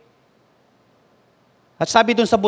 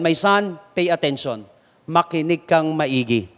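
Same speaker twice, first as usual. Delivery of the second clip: calm father; 5 semitones lower, 4 dB quieter than usual. Acted. Father calmly instructs son.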